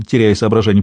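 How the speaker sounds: ordinary delivery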